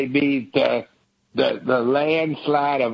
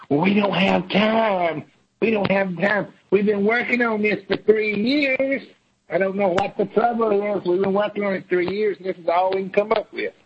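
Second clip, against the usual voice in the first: higher, mocking House voice; mock Democrat whine; 4 semitones higher than usual. Mocking House Democrats who say they lack time. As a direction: play the whining House Democrats.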